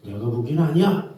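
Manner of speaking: flat-out "아니야", picking a fight; blunt contradiction. Shown as a demonstration. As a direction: shut the other person down. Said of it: "싸우자는 거죠".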